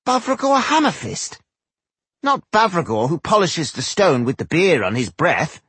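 high-pitched disbelieving dwarf; incredulous. A narrator's reading. Dwarf hears of Tungdil's choice of mason, incredulous. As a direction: question it in rising disbelief. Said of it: "said one of the dwarves incredulously".

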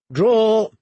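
loud, high order to archers; shouted command. A narrator's reading. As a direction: call it out sharply to the whole line.

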